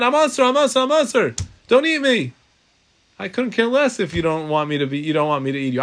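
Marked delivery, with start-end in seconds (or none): 0.0-2.3 high, loud squeaky cry; a piece of fat shrieking a warning; screaming fat. Acted. Fat screams at the eater, high mock shriek. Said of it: "The shuman starts screaming out".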